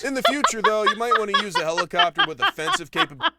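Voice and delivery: laughing through the words. Real, not acted. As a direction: crack up while talking. Cracking up at own joke.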